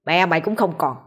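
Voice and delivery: understated angry tirade of a father; berating, with mild anger; angry scolding. Acted. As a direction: scold a son with contained contempt. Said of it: "bèn quay lại mắng".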